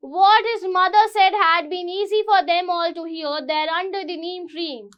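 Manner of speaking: reading the English slowly and clearly; slow story reading. Acted. Teacher reading the story to students, slow. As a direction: read it out for the class.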